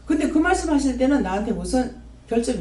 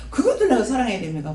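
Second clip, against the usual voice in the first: laughing protest. Retold or imitated.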